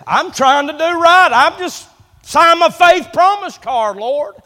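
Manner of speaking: pleading with the Lord over the car insurance; retold desperate prayer. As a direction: cry out to God about the bills, then fade. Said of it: "I said".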